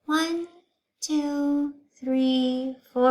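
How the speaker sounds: high, lilting schoolteacher; teacher voice. Acted. Teacher explaining shapes to her class, high teacher voice. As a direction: voice Miss Zarves teaching the class.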